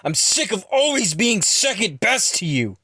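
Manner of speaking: high, loud, frustrated rant, easing on the last words; aggravated yelling. A narrator's reading. Ron admits always losing to Jackson, yelling in aggravation. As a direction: yell it out, exasperated and furious. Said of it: "becomes more aggravated and yells".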